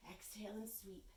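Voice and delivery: breathy whisper on the exhale. Real, not acted. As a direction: whisper the cue as you breathe out. Instructor cueing exhale softly.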